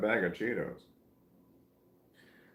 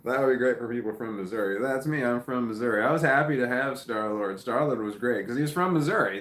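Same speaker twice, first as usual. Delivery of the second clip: fast, louder, pitched-up rant; excited; 3 semitones higher, 5 dB louder than usual. Real, not acted. Telling chat about Missouri superheroes, excited and louder.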